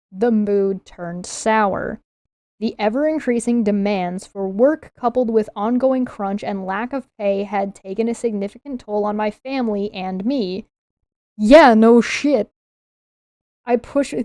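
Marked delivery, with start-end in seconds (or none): 11.4-12.5 loud, snarky, sarcastic delivery. Reacting to a passage just read aloud: sarcastic. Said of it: "I'm sounding sarcastic".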